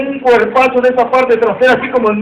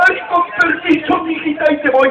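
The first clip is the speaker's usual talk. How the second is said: put-on soft old man voice; 4 semitones higher, 5 dB quieter than usual.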